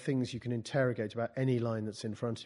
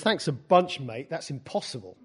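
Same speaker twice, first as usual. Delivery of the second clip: mock posh accent, pitched up at first; 2 semitones higher, 5 dB louder than usual. Poet reads a student's reply to the class, posh voice. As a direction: put on a posh voice for the quote. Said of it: "That's my posh voice".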